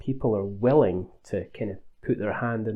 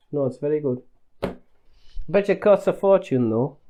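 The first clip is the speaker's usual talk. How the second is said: put-on Northern English accent, lightly done; terrible accent; 3 semitones higher than usual. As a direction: fake a broad Northern English phone voice. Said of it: "apologies for the terrible accent".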